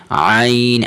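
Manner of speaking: ain pressed slightly in the throat, held long. Shown as a demonstration. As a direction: squeeze the throat a little on عین. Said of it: "عین کی آواز گلے سے تھوڑا سا دبا کے". (عین کو گلے سے تھوڑا سا دبا کر)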